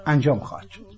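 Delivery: loud, solemn prophecy reading; prophetic proclamation. Acted. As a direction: declaim it like an ancient prophecy. Reads prophecy to the Turks.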